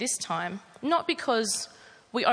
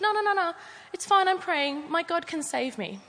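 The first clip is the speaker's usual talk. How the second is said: insistent refusal; 7 semitones higher than usual. Acted. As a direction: keep refusing, now more shrill with insistence. Man refusing helicopter, insistent.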